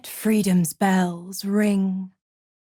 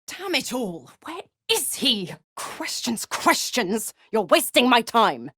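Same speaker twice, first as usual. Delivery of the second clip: higher-pitched exasperation; impatient outburst; 4 semitones higher than usual. Acted. Devil fed up with questions wasting her time, exasperated. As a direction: build from irritated muttering to snapping.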